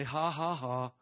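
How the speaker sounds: deliberate spoken "ha, ha, ha"; demonstrated laugh. Shown as a demonstration. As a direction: prime a laugh with evenly spaced syllables.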